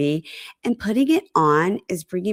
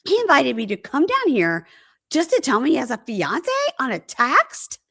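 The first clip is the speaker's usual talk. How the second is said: higher, incredulous mock complaint; exasperated, rising protest, acted out; indignant disbelief; 5 semitones higher than usual. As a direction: imitate a jilted woman's outrage. Acts her indignant rant.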